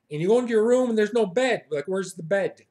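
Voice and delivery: loud, high, fast mock outrage; mock disbelief. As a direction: react appalled at what's missing. Acted shock at missing bed.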